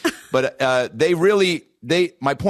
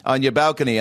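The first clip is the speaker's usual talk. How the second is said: put-on Polish landlady accent. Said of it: "I don't do accents".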